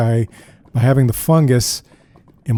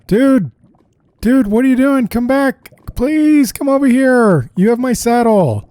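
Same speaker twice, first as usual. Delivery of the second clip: desperate calling; 11 semitones higher, 4 dB louder than usual. Real, not acted. Calling to wandering mount.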